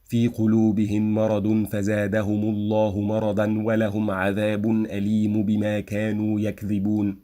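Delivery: words linked, full vowel endings like مرضا and عذاب; read with diacritics. Shown as a demonstration. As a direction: recite مرضا and عذاب with case endings, flowing.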